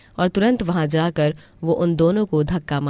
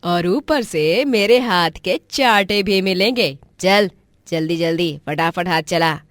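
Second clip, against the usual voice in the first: harsh aunt; 2 semitones higher, 4 dB louder than usual. Acted. Aunt Jhumri threatening niece Bhavna with slaps, harsh and loud. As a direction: threaten her, then hurry her up.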